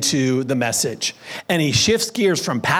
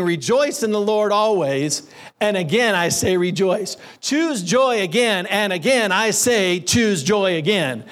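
building repetition; 2 semitones higher than usual. Retold or imitated. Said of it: "he could keep going on and on".

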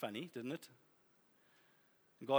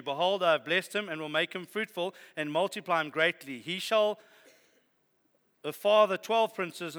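voice of God. Acted. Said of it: "God said".

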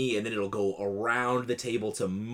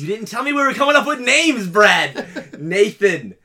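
much higher, louder laughing complaint; laughing as he protests; 12 semitones higher, 12 dB louder than usual. Real, not acted.

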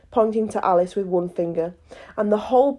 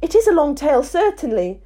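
put-on young girl voice; 6 semitones higher than usual. Alice speaks.

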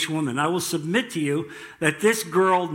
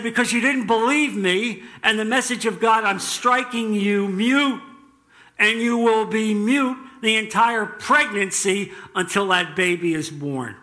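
lightly acted angel passing sentence, pitched up; mild mock-stern angelic judgment; angel's rebuke; 5 semitones higher than usual. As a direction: pronounce a punishment with raised, insistent voice. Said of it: "He said".

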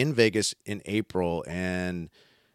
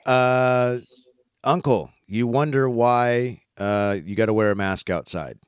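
louder, slow opening to the uncle; louder, slow address to the uncle; announcing reply; 3 semitones higher, 4 dB louder, slower than usual. Real, not acted. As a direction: read it out like a formal reply.

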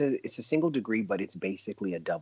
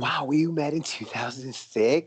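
surprised; 7 semitones higher, 6 dB louder than usual. Real, not acted. Realizing they met earlier.

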